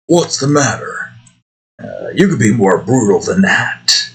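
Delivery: lightly attempted Australian accent; rough Australian impression. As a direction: imitate an Australian tough guy, not quite getting it. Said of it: "He sounded like Aus-, kind of Australian".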